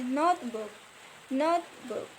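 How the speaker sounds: first half of "notebook" stressed, second half lighter; stress on first word. Shown as a demonstration. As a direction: lean on "note" in "notebook", let the end fall. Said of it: "have the word stress on the first word".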